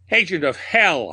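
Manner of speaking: high-pitched cry of hate; narrated shriek, pitched well up; theatrical shriek. A narrator's reading. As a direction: shriek it as a curse, high and fierce. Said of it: "I shrieked".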